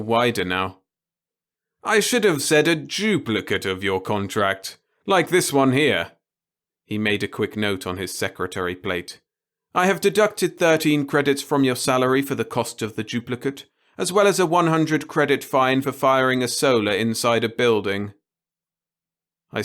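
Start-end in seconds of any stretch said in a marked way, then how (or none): 1.8-6.1 put-on gleeful old boss. The boss voiced in story. 9.8-18.1 put-on gleeful old boss. The boss voiced in story.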